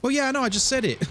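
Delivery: high-pitched incredulous retort; hammed-up exasperated comeback; mock exasperation. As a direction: throw it back in mock disbelief. Mocks an empty stock phrase.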